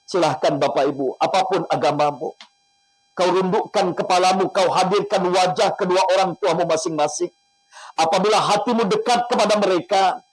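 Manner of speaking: emotional prayer. Acted. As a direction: plead with God, guiding the listeners. Leads an emotional prayer and guided imagery.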